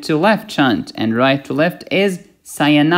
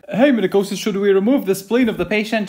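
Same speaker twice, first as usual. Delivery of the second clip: higher-pitched eager questioner; student asking; 5 semitones higher than usual. Acted. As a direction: put on a high student voice calling out a question.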